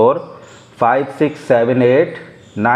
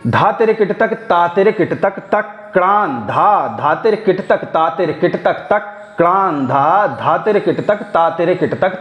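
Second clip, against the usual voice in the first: rhythmic bol recitation; 2 semitones higher than usual. Shown as a demonstration. Teacher chanting the tihai three times for students. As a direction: ride the cycle three times steadily. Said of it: "देखिए, ये तीन बार घूम रहा है".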